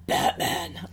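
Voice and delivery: a hint of a gravelly Batman; lightly voiced Batman impression. Friend recalling how the wolf sounded, in a hint of Batman. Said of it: "I was thinking he sounded like Batman".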